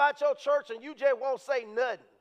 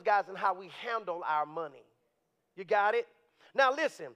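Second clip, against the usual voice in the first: ordinary talk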